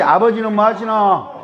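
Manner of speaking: 아버지는 뭐 하시노 with 뭐 stressed, in a Gyeongsang accent; a second try at the Gyeongsang greeting; 경상도 사투리로 다시; Gyeongsang accent, retake. Shown as a demonstration. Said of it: "다시".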